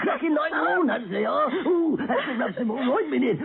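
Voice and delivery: put-on old woman voice. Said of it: "you ought to be on stage".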